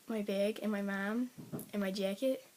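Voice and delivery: words in a slight Luxembourgish accent. Shown as a demonstration. Vlogger showing words she gets teased for, Luxembourgish accent. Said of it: "I say things really weird".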